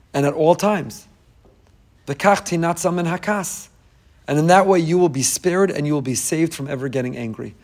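usual speaking voice

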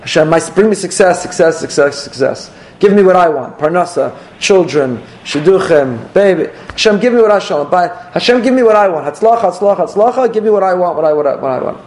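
mock of a selfish, greedy prayer; demanding plea. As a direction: hammer it like a spoiled demand.

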